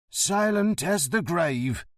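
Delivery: solemn oath. Acted. Driver swears a solemn oath.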